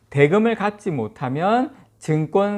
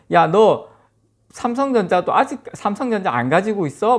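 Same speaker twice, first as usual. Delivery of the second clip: mock incredulous taunt; 4 semitones higher than usual. Friends three years ago chiding someone for not holding Samsung shares, mock incredulous. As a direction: act out a friend's disbelief, pitched up. Mocking friend in a retold scene.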